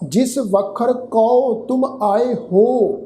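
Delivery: slow, measured Gurbani recitation; drawn-out chanted recitation; scripture recitation. Shown as a demonstration. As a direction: recite the line slowly and devoutly. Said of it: "ਇਹਦਾ ਸਾਧ ਸੰਗਤ ਉਚਾਰਨ ਬਣੇਗਾ ਹੋ".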